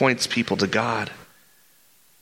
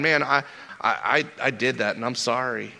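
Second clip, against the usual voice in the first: humble apology. Shown as a demonstration. Modelled halting apology.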